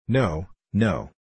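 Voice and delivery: lightly voiced squeaky heckler; a hint of squeaky protest; high squeaky voice. A narrator's reading. Witherspoon objects to talk of love, lightly squeaky. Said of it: "squeaky voice".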